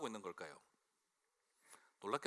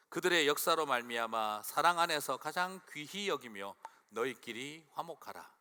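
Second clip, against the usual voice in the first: scripture reading; 5 dB louder than usual. Shown as a demonstration. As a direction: read the verse aloud with care. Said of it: "같이 읽겠습니다". (천천히 또박또박 성경 봉독)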